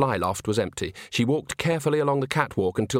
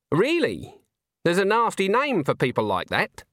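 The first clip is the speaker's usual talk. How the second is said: put-on higher-pitched, sharp old woman's retort; snapped; 8 semitones higher than usual. A narrator's reading. Old witch retorts to a man who lurks in dark places, snappy. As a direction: cut him down as a tart old witch. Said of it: "snapped Granny".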